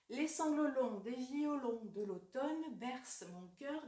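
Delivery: first slow reading of the verse; poem recitation. Shown as a demonstration. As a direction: read the line slowly and evenly. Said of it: "Je vous donne l'exemple bien connu de Verlaine". (première lecture lente du vers)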